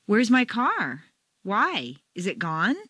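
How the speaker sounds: worried question rising with feeling; alarmed rhetorical question tune; emotional question. Shown as a demonstration. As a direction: ask as if the car were stolen, feelings rising. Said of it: "your intonation rises up along with them".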